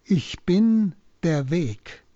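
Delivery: slow, with weight on „bin“; solemn key statement. Shown as a demonstration. Priest presenting the main message to listeners, slow and solemn. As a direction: deliver „Ich bin der Weg“ slowly, leaning on „bin“. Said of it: "Die Hauptaussage ist".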